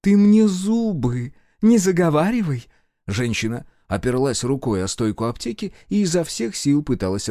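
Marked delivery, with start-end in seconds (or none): 0.0-2.7 high, loud cutting retort; angry retort. A narrator's reading. Woman cuts off the flattering colonel, angry. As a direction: snap back at him.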